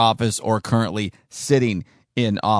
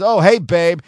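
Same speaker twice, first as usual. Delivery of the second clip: mock sweet talk; 4 semitones higher, 4 dB louder than usual. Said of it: "But if he says".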